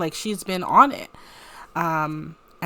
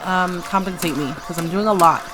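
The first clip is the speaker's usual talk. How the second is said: louder, pushy bargaining; demanding Ramona; 4 dB louder than usual. Acted. Ramona pushing Alec for payment, loudly demanding. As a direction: lean in and push for payment. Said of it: "She's like".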